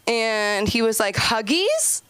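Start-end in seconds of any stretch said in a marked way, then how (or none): 1.2-2.0 a high squeaky troll asking; mock creature voice, pitched up. Comic telling the crowd her troll's line.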